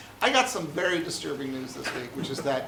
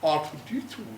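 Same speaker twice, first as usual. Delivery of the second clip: C-3PO voice. Retold or imitated. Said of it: "C three P O was like".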